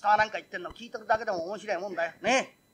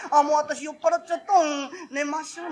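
tipsy woman; 4 semitones higher than usual. Acted.

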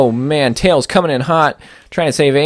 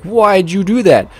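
indignant question; 7 semitones higher, slower than usual. Retold or imitated. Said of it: "and then they're like".

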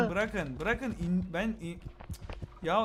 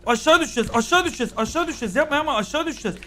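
screaming while falling; 5 semitones higher, 4 dB louder, faster than usual. Real, not acted. Panicking as character falls.

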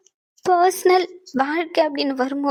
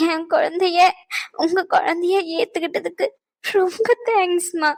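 tearful thanks. Acted. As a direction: thank her while the tears come. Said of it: "நீ ஏம்மா அழுகுற?".

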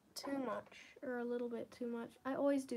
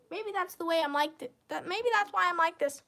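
nervous laughing; 6 semitones higher, 11 dB louder than usual. Real, not acted. Laughing off a dark memory.

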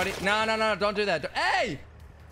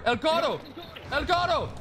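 raised, called-out attempt at Spanish; amateur Spanish, higher than usual; talking Spanish; 7 semitones higher than usual. Real, not acted. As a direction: slip into makeshift Spanish, pitched up. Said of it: "I don't know why I'm talking Spanish".

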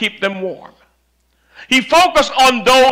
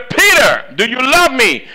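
Jesus asking Peter once more, raised; pleading Jesus; 4 semitones higher than usual. Acted. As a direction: ask it with a teacher's ache. Jesus asks a third time.

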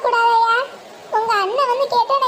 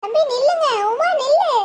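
urgent, higher-pitched call; calling out to stop; 3 semitones higher than usual. Acted. Woman calling to departing brother-in-law and Uma, urgent raised call. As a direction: call after them to halt.

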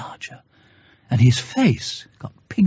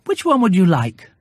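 put-on boy's greeting; 5 semitones higher than usual. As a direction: answer like a small boy. Boy offers balloon.

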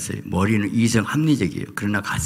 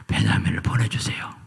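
whispered plea; 3 dB quieter than usual. Retold or imitated. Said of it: "유다가 그래요".

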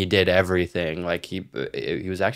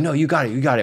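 higher, insistent encouragement; imitated dad urging; 6 semitones higher, much faster than usual. Dad urges the kid to keep hold of the plywood, higher insistent voice. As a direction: urge them on, voice pitched up.

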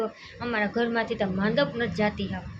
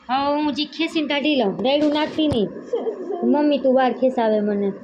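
laughing; 6 dB louder than usual. Real, not acted. Mother laughs loudly while pulling out her daughter's hairpins. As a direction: laugh through the words, loud and teasing.

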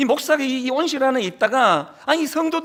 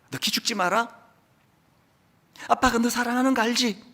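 softer, tender father's reassurance; 4 dB quieter than usual. Retold or imitated. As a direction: quietly say she is loved. Preacher re-voices father's tender words.

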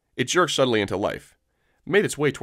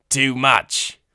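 submissive Weequay; 3 semitones higher, 4 dB louder than usual. Acted.

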